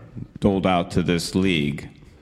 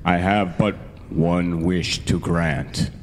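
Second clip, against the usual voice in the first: genie voice; 2 semitones lower, slower than usual. Acted. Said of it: "This genie voice is".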